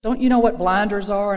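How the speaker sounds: put-on loud raspy old-timer. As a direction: rasp it out, half scolding. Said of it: "She had this real raspy voice".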